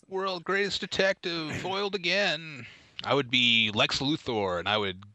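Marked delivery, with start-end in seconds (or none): 0.1-2.6 higher, lightly attempted superhero voice; a hint of a thwarted detective; Batman. Co-host asks for the Batman voice, mock-heroic. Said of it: "Say the Batman voice".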